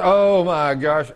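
slow, mildly hammed-up groan; complaining groaner. Aching man answering a church greeting, mock groan. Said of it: "Do you hear people talk like that?".

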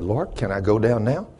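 softened, tentative request; retold quiet plea; kinda quietly. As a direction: ask it under your voice, as a private prayer. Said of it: "I kinda quietly".

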